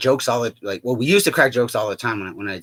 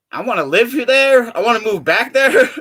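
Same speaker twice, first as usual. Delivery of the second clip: mock eager; 8 semitones higher, 5 dB louder than usual.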